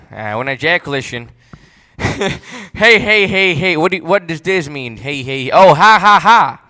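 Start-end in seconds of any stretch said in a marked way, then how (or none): 2.7-6.6 loud hammed-up hey hey and ha ha; bursting in with mock glee, louder; mock excited outburst. Reacting to a comment, a hammed-up loud outburst.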